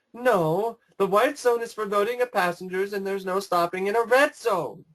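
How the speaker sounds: arguing over the loudspeaker; airport announcement. Retold or imitated. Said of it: "starts talking like".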